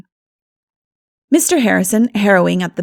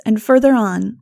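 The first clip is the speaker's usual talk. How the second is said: ordinary delivery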